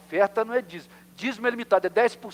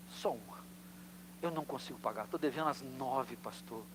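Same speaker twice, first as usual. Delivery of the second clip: much softer, lower tearful pleading; imitated crying; 4 semitones lower, 9 dB quieter than usual. Church member confessing his unpaid pledge to the pastor: soft tearful plea. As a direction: act out a broke man sobbing out his confession.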